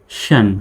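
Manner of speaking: শন sounded out on its own; model pronunciation. Shown as a demonstration. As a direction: demonstrate the ending শন as one separate syllable. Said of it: "এইরকম শন".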